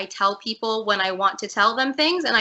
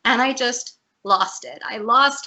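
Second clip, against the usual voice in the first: getting emotional; 3 semitones higher than usual. Real, not acted. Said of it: "I don't mean to get emotional".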